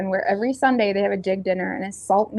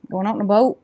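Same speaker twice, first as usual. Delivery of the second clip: Lunenburg East Coast accent on boat. Shown as a demonstration. Showing viewers her East Coast accent. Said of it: "that's just how I talk".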